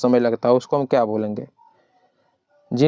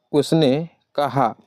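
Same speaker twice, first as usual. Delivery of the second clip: slow dictation; much slower than usual. Shown as a demonstration. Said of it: "उसके बाद कोमा".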